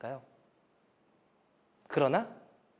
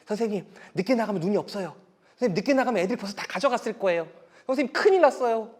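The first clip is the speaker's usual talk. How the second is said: excited pupils; 3 semitones higher, faster than usual. Retold or imitated. Pupils begging their teacher to play in snow, excited pleading.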